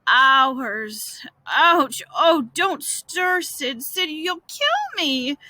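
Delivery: slow, hammed-up pained groans; groaning. Boy faking agony for his brother, groaning. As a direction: groan as if every touch hurts. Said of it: "don't groan so".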